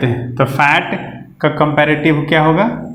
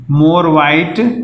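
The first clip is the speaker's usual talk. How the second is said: very slow more white, each word spaced; slow demo. Shown as a demonstration. Teacher slowly demonstrating the more white form. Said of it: "हम more भी लगा सकते हैं".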